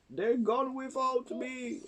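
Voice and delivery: high-pitched wail of the left-behind youngster; plaintive cry. A narrator's reading. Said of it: "And he cried".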